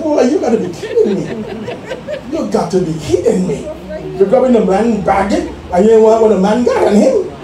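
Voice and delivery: laughing through the words, mock scolding; laughing disbelief. Pastor retelling his argument with the bag carrier, laughing. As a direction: tease him while cracking up.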